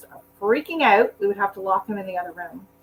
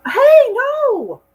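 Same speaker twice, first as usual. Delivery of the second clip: sharp no; 9 dB louder than usual. Real, not acted. Stopping dog on the table.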